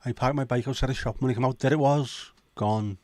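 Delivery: lilting North Walian joke delivery; exaggerated North Welsh twang; mock North Wales accent. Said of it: "In North Wales".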